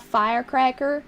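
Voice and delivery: put-on Southern US accent; Georgie Cooper accent. Shown as a demonstration. Streamer reads chat's firecracker request in a Southern accent. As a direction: say firecracker with a light Southern twang. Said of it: "You can't do the accent without saying".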